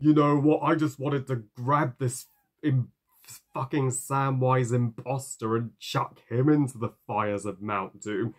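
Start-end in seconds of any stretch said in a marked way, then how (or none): 0.1-6.9 louder, higher, fed up; exasperated outburst. Real, not acted. Reviewer fed up with the animated Sam, loud and exasperated. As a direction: let the frustration burst out.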